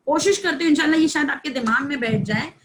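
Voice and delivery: ordinary delivery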